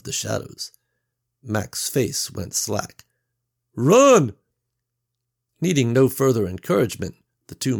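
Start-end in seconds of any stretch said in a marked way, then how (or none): 3.7-4.3 high, loud panicked yell; shout. A narrator's reading. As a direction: scream it as the mob appears. Men see a zombie mob.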